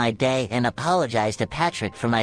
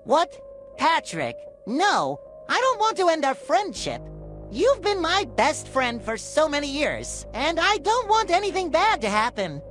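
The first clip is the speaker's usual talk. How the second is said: much higher, distraught cartoon sponge; shocked pleading. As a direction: beg your best friend not to leave. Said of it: "SpongeBob becomes shocked at this".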